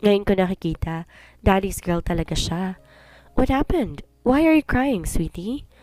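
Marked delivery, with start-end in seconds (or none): 3.4-5.7 gentle. Acted. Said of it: "Malumanay na tanong ni Arcos".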